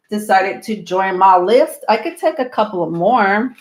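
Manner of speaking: slightly breathless talking; out of breath. Real, not acted. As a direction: speak a little winded. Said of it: "I don't know why I'm so out of breath".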